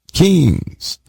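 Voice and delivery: "Kings" punched out high, falling hard; one-word hammer blow: "Kings"; emphatic single word. Shown as a demonstration. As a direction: hit "Kings" up top and drop it. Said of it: "the reason I'm giving this emphasis".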